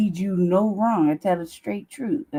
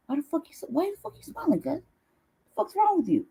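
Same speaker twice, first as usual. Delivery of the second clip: mock suspicious questioning; 4 semitones higher than usual. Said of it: "I'm like".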